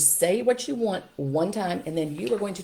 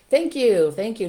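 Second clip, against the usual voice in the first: praising parent; 4 semitones higher, 8 dB louder, slower than usual. Shown as a demonstration. Parent praising compliant child.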